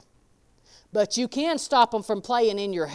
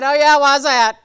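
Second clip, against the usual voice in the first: louder mock husband, dry and doubtful; husband's dry reply; 4 semitones higher, 12 dB louder than usual. Husband teasing his wife with doubt, mock voice. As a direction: play the skeptical husband. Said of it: "He said".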